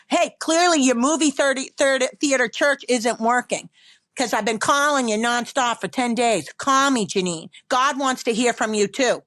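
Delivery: mock reproachful parent voice; nagging dad. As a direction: imitate a fed-up father scolding by phone. Dad's nagging phone call acted out.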